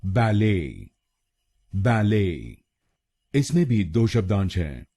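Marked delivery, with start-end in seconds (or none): 0.0-2.6 बैले as ba-LAY, silent T; American बैले, stressed "lay"; American pronunciation. Shown as a demonstration. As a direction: lean on the second syllable of बैले. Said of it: "American pronunciation इसको बोलेंगे".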